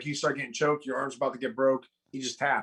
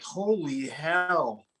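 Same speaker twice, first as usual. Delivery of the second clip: retold amazement; much slower than usual. Retold amazement at days counted.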